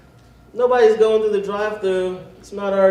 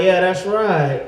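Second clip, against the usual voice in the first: slow smug defiance; slower than usual. Pretend. Defiant reply.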